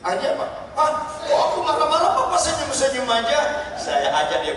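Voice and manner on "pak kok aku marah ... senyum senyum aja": voicing the wife. Wife's complaint voiced in story.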